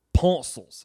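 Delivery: "pencils" as PAHN-sles, loud; mispronounced pencils. Retold or imitated. Imitating a schoolmate's word, "pencils" as PAHN-sles. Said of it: "who called them pencils".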